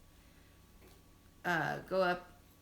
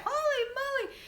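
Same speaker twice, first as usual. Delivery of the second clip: retold yell; 5 dB louder than usual. Mom re-enacting her labour outburst, high mock yell. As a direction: imitate your own shocked outburst, louder. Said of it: "that was exactly what I said".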